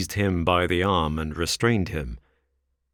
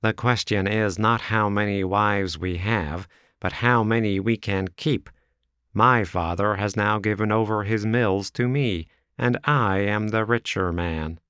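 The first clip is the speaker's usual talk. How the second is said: lightly voiced young rival; a touch of a boastful suitor; 3 semitones higher than usual. Drebber to Ferrier, lightly boastful. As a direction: brag a little.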